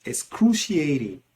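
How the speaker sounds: ordinary delivery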